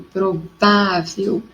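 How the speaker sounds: provável with VÁ held and stressed; teacher's demo of provável, VÁ stressed. Shown as a demonstration. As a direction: stretch the "vá" in provável. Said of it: "sílaba tônica forte no vá".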